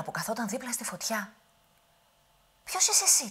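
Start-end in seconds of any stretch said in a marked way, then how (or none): 2.6-3.3 put-on high, loud whispered old woman's question; old witch asking. Old witch startles the youth by the fire, high whisper. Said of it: "του λέει".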